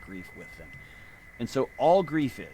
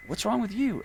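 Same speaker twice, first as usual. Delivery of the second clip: imitating wife; 9 semitones higher than usual. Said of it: "my wife's gonna say".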